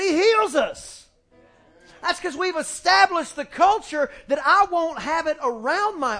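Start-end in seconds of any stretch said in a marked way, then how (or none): 0.0-1.1 high, slow and proud; child's answer. Retold or imitated. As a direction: answer like a child who knows. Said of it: "He said".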